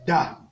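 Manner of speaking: Da on a short low tone. Shown as a demonstration. Teacher reading syllables, Da on low tone. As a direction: drop Da to the low tone. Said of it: "Ça donne ceci".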